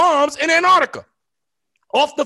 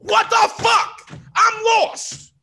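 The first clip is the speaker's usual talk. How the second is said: angry rant; 4 semitones higher than usual. Real, not acted. Host ranting about military spending, angry shouting. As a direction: rant like you've finally snapped. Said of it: "now we got a motherfucking rant".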